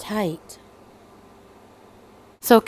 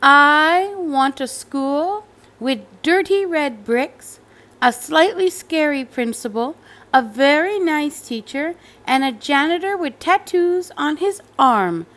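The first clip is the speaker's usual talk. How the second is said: put-on little girl ordering; 5 semitones higher than usual. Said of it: "said Cassandra".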